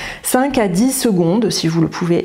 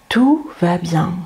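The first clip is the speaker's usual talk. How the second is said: slow gentle self-talk; slower than usual. Shown as a demonstration. Reassuring yourself during panic, slow and gentle. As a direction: ease it out slowly to yourself. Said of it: "vous parler tranquillement et gentiment".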